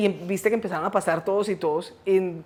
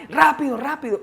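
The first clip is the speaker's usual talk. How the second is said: higher-pitched, hurried prompting; retold urging; 6 semitones higher than usual. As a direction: mimic someone hustling a group along. Coyotes hurrying the group on.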